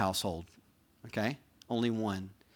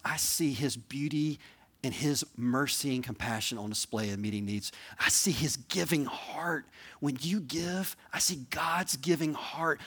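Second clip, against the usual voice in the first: slow, higher-pitched words of encouragement; heartfelt affirmation; 3 semitones higher, slower than usual. Acted. Church member telling a friend how God uses them, heartfelt affirmation. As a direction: affirm them slowly and earnestly. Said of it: "I want you to say something like".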